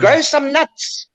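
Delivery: mock outburst, pitched high; retold defiant outburst. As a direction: throw it back at them, defiant. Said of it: "then one day I decided".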